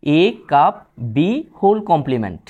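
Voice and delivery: spaced-out read-out of "এ কাপ বি হোল কমপ্লিমেন্ট"; teacher modelling how to read it; demonstrated reading. Shown as a demonstration. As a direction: pause after "কাপ", spelling out the notation. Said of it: "আমরা এটাকে বলতে পারি".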